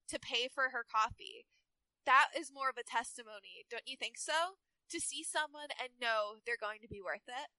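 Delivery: lightly voiced Valley Girl; Lena. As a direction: read it as a mild Valley Girl. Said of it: "make Lena a Valley Girl".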